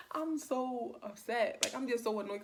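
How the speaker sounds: upset, annoyed. Retold or imitated. Telling off a late-night caller, upset and annoyed. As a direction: draw out the first words, then rush on annoyed. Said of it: "by this time I'm mad".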